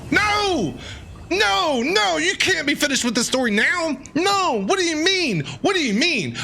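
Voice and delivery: real outburst of dismay, pitched high; shocked protest. Real, not acted. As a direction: cry out in disbelief that it's over. Story suddenly ends on cliffhanger.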